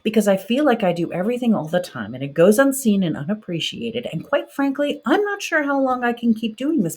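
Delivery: inner outburst. Pretend. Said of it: "just wants to scream".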